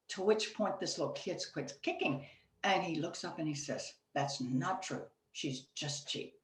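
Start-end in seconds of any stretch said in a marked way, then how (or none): 4.1-6.4 put-on sulky kid. Crying kid answers friend.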